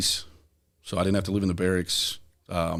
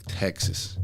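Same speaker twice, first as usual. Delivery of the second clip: deflated; 3 semitones lower, 7 dB quieter than usual. Retold or imitated. Sent to Texas a second time.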